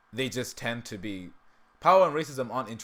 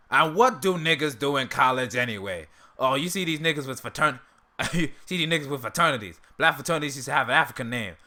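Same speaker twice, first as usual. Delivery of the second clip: louder mocking old-bigot rant; Uncle Ruckus impression; 3 semitones higher, 5 dB louder than usual. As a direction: scoff at it like a cranky old man. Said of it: "I can't do a Ruckus impression for that long".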